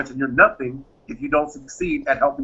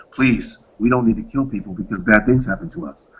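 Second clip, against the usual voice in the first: calming reply; 7 semitones lower than usual. Retold or imitated. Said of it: "you go".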